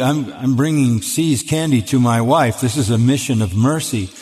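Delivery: plain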